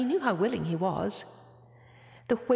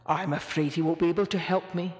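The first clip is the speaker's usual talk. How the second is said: low, gloomy whale voice; a stranded whale losing hope, muttering; whale voice to himself; 2 semitones lower than usual. A narrator's reading. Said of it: "said Boris to himself".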